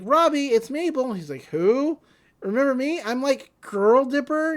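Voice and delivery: put-on chirpy girl voice. Mabel voiced calling through door.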